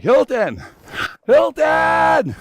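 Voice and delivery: high ringing shout of a name; screaming his name. Retold or imitated. Nurse calling out to comatose son, high shout. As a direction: yell his name to wake him. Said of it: "And she was like".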